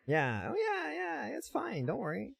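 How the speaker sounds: fake-soothe her, clearly not meaning it; sarcastic reassurance. Sarcastic reassurance at bad haircut.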